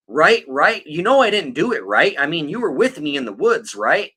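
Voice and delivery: sketchy insistent voice. Retold or imitated. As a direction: press him to agree, fishy and insistent. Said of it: "trying to be like".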